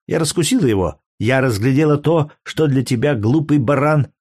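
a jealous lover lashing out at her man; angry courtesan. Acted. Courtesan's voice in the quarrel. (разгневанная куртизанка)

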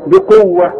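بقوة ending in a breathed h, no t; stop on h. Shown as a demonstration. Teacher showing the stop, final h in بقوة. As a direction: finish بقوة with h. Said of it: "التاء المربوطة تديك هي عند الوقف".

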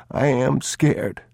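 put-on high, small child's voice; a scared young boy tugging at his father; boy's voice. A narrator's reading. Boy admits fear.

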